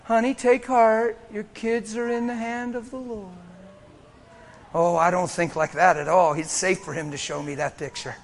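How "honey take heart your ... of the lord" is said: softer, half-hearted reassurance; mild, timid churchy comfort; weak soft comfort. Retold or imitated. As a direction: mumble the stock phrase. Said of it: "guess what I'm gonna say?".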